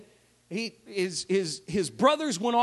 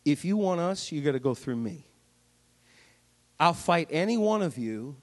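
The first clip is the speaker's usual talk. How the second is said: Goliath challenge; 5 semitones lower than usual. Retold or imitated. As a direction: challenge the army like a lumbering giant. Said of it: "Goliath comes out and says".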